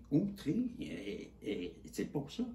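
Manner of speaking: outraged. Real, not acted. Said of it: "Je suis outré".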